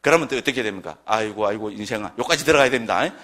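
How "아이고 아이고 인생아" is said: low, groaning lament; mock pity. Lamenting a friend's pointless life, mock pity. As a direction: sigh pityingly at a hopeless friend. Scripted pitying put-down to a friend.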